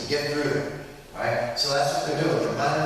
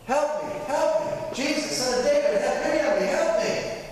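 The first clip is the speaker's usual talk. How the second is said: high, pleading call for help; begging cry; 12 semitones higher than usual. Retold or imitated. Canaanite woman begging Jesus to heal her daughter, high pleading cry. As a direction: beg him not to walk away.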